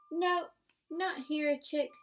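storyteller's excited twist; excited reveal. Acted. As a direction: burst out with playful surprise. Reveal of animal under flap.

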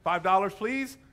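offhand, going through the motions; blasé routine. Acted. Medium faking a seance for a customer, blasé. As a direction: rattle it off like an old routine. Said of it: "this should be old hat".

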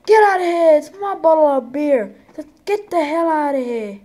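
loud, high get out of here; mock angry shout. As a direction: throw the drunk out, shouting. Bar owner throwing him out.

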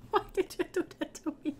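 fast, laughing mock protest; laughing complaint. Real, not acted. Player laughing at the ghost who killed her, fast laughing protest. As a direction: complain through the giggles.

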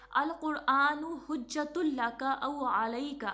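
slow, measured Arabic hadith recitation. Shown as a demonstration. Teacher reciting a hadith to students, slow and measured. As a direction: recite the hadith slowly and carefully.

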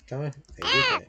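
pleading urge. Real, not acted. Urging encouragingly.

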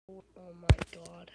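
slow, loud exasperated cry; loud oh my god. Real, not acted. Gamer groans loudly at a teammate, slow and loud. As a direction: drag it out loud, fed up.

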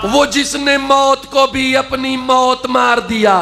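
poetic recitation. Acted. Recites verse.

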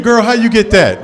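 high, loud disbelieving question; incredulous shout. Retold or imitated. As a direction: yell in disbelief.

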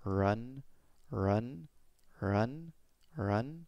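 "run" said with jaw still and lips open. Shown as a demonstration. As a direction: say "run" moving only the tongue. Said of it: "moving my jaw very little and keeping my lips as open".

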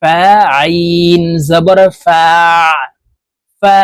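"ফা" closed with an ain pressed from mid-throat; throaty ain. Shown as a demonstration. Teacher shows ain is not hamza, "ফা" ending throat-pressed. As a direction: squeeze the end of "ফা" in the middle of the throat. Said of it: "এভাবে পড়তে হবে".

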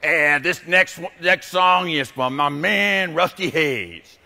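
a slow, lightly voiced smooth late-night DJ; radio DJ. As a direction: croon the dedication like a radio host, drawn out. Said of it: "Jock would come on and he'd go".

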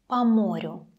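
"по морю" with о of по as a. Shown as a demonstration. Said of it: "You hear how I'm pronounce it".

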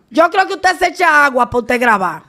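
ordinary talk

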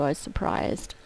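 whispered retake. Real, not acted. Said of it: "Wait a minute".

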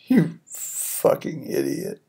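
muttered under breath. Retold or imitated. His own silent thought.

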